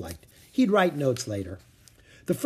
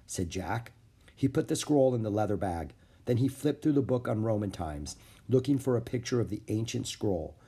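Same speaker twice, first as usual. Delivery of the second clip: ordinary delivery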